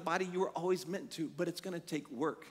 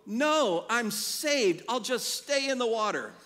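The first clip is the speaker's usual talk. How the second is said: silly refusal; 3 semitones higher, 6 dB louder, slower than usual. Retold or imitated. Absurd swimmer refusing the boat.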